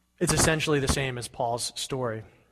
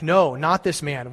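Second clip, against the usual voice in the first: shouted back; 3 semitones higher, 7 dB louder, slower than usual. Acted. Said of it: "they shouted back".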